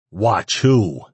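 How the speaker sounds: forceful question with a touch of anger; demanding. A narrator's reading. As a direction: demand an answer from a captive. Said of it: "Ash demanded".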